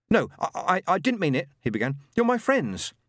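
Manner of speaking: high, loud, stammering plea; desperate stammer. Acted. Adam pleading with his frightened friends, desperate. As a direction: plead in panic.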